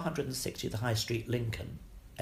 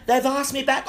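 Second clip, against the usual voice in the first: excited news; 13 semitones higher, 10 dB louder than usual. Retold or imitated. Retelling own excited news.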